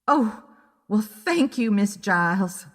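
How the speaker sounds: put-on a pleased old lady's thank-you; delighted thanks. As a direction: gush your thanks. Old client thanks detective.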